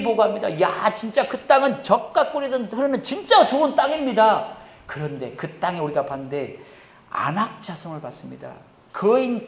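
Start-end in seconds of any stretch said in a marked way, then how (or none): 0.6-4.6 high, impressed exclamation; acted amazed report. Scouts reporting on Canaan's good land, acted amazement. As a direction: marvel aloud like a returning scout.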